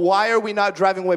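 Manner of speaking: fast retold panic; freaking out. Preacher repeats their question from the elephant scare, hurried and mildly panicked. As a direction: rush it out, mildly frantic. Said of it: "I was freaking out".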